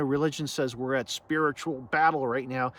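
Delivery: mildly sarcastic, sceptical report; faintly mocking what religion claims. Real, not acted. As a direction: say it with a touch of sarcasm. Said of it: "sorry to make that sound sarcastic".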